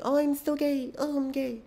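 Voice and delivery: very high, girly put-on voice; hammed-up showy gay dude; mock showy gay guy.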